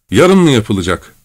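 a mild cry from the crowd. Acted. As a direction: call it out in protest. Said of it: "diye haykırdı kalabalığın içinden bir kadın".

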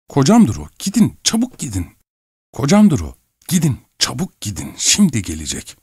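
high, urgent alarm, dropping at the end; frightened wife hurrying someone away; panicked urging. A narrator's reading. Wife panics as husband approaches. (telaşlı, tiz sesle uyarı)

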